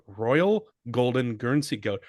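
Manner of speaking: put-on lightly done English accent. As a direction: say it like a posh Brit. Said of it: "my fuckhead English accent".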